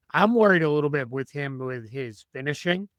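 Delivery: strained, tired voice; losing voice. Real, not acted. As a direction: talk through a fading voice. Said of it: "I'm losing my voice".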